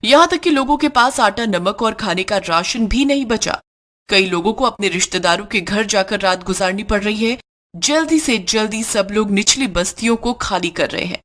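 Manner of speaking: formal news anchor delivery; news read. Acted. News bulletin on shop radio. (समाचार वाचक की शैली में)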